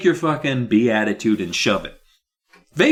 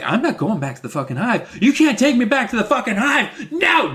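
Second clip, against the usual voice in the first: higher and higher, laughing mock shout; hammed-up panicked yell; 13 semitones higher than usual. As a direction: scream it as you're hauled off. Bee dragged away protesting.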